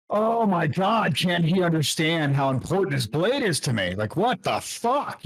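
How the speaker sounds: high, slow, whiny disbelief; childish agitation. Acted. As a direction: sulk like a kid who isn't taken seriously. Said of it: "agitating me in a childish manner".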